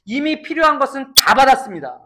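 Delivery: 이미 필요한 것은 다 받았습니다, said aloud to the neighbour; telling your neighbour. Shown as a demonstration. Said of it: "옆 사람에게 권면 하나 할까요?". (옆 사람에게 또렷하게 권면하듯)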